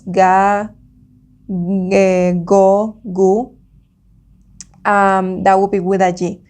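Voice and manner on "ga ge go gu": "ga, ge, go, gu" said slowly one by one; slow school dictation. Shown as a demonstration. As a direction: drill "ga, ge, go, gu" with pauses. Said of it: "remember the vowels".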